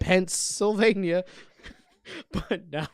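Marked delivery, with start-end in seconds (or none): 0.0-1.2 Pennsylvania slowly stretched, pitched higher; playful punning. Shown as a demonstration. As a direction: draw out Pennsylvania for the pun. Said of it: "I just wanted to say Pennsylvania".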